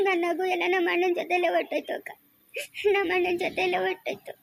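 acted weepy mourning for a brother; tearful grieving. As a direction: grieve aloud through tears. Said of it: "ಅಳ್ಬಾರ್ದು ನೀನು".

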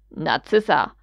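low, slow growl of a stern father. Acted. Lucius growls at his wife at the table, low and threatening. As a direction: growl her name, deep and menacing. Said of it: "grollte Lucius tiefe Stimme".

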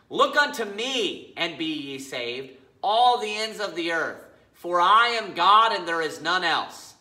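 slow, emphatic Bible reading; scripture reading. Acted. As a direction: read scripture deliberately, weighting each phrase. Reads scripture aloud.

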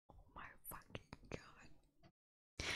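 slow, barely voiced whisper; stunned whisper. Real, not acted. Reader reacting to the story, stunned whisper. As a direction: whisper it in disbelief, drawing it out.

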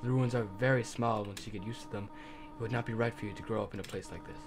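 a tender, sad guardian; gentle motherly goat voice. Acted. Voices Toriel's farewell.

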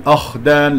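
"أخدان" opening on a heavy, backed a; wrong heavy hamza. Shown as a demonstration. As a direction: thicken the first vowel of "أخدان", as a mistake. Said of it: "لا أفخم الهمزة". (تفخيم خاطئ لهمزة "أخدان")

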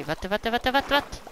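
short nasal villager-style "what"s; imitating villager. Mimicking the game villager's noise over and over.

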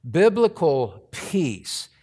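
"Biblical" slow and weighty, each syllable leaned on; stress on biblical. Shown as a demonstration. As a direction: land hard on "Biblical", then ease into peace. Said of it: "I emphasize the word biblical peace".

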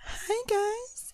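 shrill, very high screeching bird cry; eagle voice. Pretend. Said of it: "then do an eagle voice".

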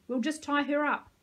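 shouting the order again. A narrator's reading. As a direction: insist loudly. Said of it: "I shouted".

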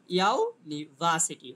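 "ইউনিভার্সিটি" very slowly, lighter stress on YU, strongest on VA; primary, secondary stress. Shown as a demonstration. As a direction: break up "ইউনিভার্সিটি" and lean hard on VA. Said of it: "যেমন আমরা এটা উচ্চারণ হবে কেমন তাহলে?".

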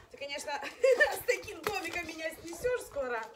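laughing while talking to the dog. Real, not acted. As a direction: laugh through the words. Dog jumps, she laughs.

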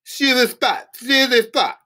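very high-pitched plea; frantic cry. A narrator's reading. Prisoner pleading while threatened with a baton, high frantic cry.

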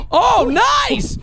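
high-pitched, excited cheer; delighted exclamation. Real, not acted. Reacting to a lucky turn in the game, delighted.

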